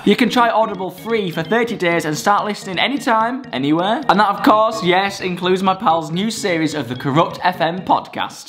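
upbeat ad read. Acted. Reads ad.

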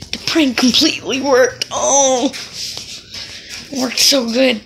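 loud laughing delight. Real, not acted. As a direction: laugh through the words. Laughing after successful prank.

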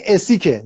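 "اسیکه" with a hard k; corrected "Essig" with k. Shown as a demonstration. Commenter correcting the host, "اسیکه" with hard k. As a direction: say "اسیکه", k where others say sh.

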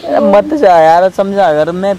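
slow, loud, crying plea; real tearful pleading. Real, not acted. Boyfriend begs his partner not to leave, crying slowly. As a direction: beg her through tears not to leave. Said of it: "देखो फिर रो रहे हो".

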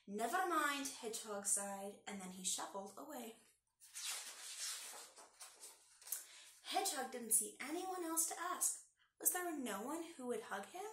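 put-on lively read-aloud for kids; story narration. A narrator's reading. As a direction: read it like storytime for little ones. Reads picture book aloud.

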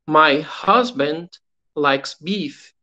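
slow, clear English; slow teacher read for repetition; slow model sentence. Shown as a demonstration. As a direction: model it slowly for them to repeat.

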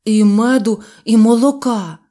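a hungry bear shouting both at once; eager exclamation. A narrator's reading. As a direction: blurt it out, too eager to hold back. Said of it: "що вигукнув".

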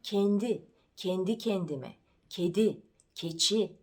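"Kendi", "kedi", "keçi" with a closed front E; closed E demo. Shown as a demonstration. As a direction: jaw almost shut on each E of "kendi kendime". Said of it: "Kapalı E ile söylenir".

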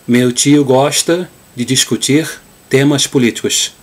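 Rio Portuguese with hissed sh sounds in "gosta" and "políticos"; Carioca accent. Shown as a demonstration. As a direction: read it like a Carioca. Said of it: "the way the Cariocas would say it".

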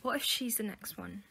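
hushed, worried whisper. Acted. Student confiding her fear to her friend, worried whisper. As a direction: breathe it so nobody overhears.

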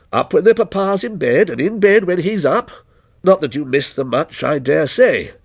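lightly voiced stranger, detached and ominous; stranger's voice. Lightly voiced stranger answering the night watchman, a touch aloof.

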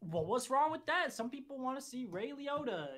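lightly put-on actor defending his career; slightly wounded celebrity; Ray Liotta. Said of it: "yes, I am Ray Liotta".

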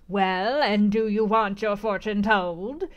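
a hint of a harsh fortune-teller, slow and firm; decided old crone asking, lightly voiced; lightly voiced gypsy offering a fortune. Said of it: "in a voice as decided as her glance, as harsh as her features".

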